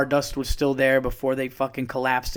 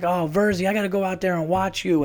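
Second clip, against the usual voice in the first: retold enthusiasm; 6 semitones higher than usual. Retelling judge's enthusiasm.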